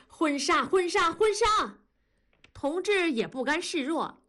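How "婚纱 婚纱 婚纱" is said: much higher, heated repetition; angry, loud insistence. A narrator's reading. Wife furious at her husband over the wedding outfit, angry and insistent. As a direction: repeat it angrily, pitch climbing each time. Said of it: "文丽气得大声地说".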